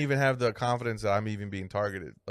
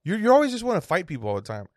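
laughing scold; 4 semitones higher than usual. Retold or imitated. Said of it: "wife scolding".

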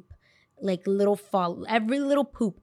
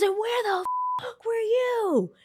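mock furious mom; 14 semitones higher, slower than usual. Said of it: "She goes".

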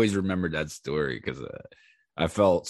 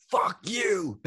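mock defiant retort; 12 semitones higher than usual. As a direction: hurl a comic drunken comeback, pitched way up. Acts out his drunk retort.

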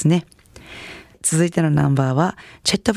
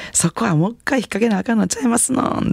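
teasing retort; 7 semitones higher than usual. Retold or imitated. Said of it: "一人ツッコミされまして".

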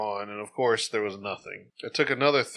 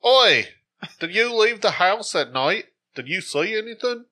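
high, loud hammed-up English accent; mock English accent, much higher and louder; bad English accent; 9 semitones higher, 6 dB louder than usual. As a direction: bark Oi like a British hooligan. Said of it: "Start off with Harry Potter".

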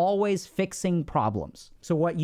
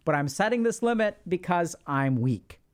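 playing weak; 3 semitones lower than usual. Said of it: "Be weak".

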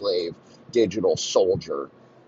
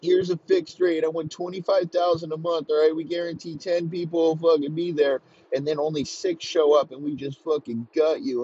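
higher, pushy salesman pitch; a higher, slick mock contractor laying out the deal; smug contractor; 5 semitones higher than usual. Voicing a greedy staffing contractor.

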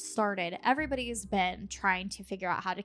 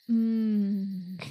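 hungry ghost mm; 3 dB louder than usual. Pretend. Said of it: "they're like".

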